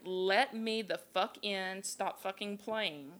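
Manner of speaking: slow imitation of a creature's halting speech; halting, weird voice. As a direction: say it slowly, haltingly, slightly off. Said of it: "It's like this halting, weirdly toned voice".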